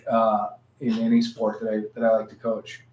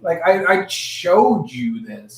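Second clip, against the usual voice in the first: mock offense; 5 semitones higher, 4 dB louder, slower than usual. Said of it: "You're like".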